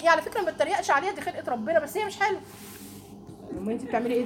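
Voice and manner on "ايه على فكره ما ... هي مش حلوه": snide excuse. Retold or imitated. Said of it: "وتقول لك".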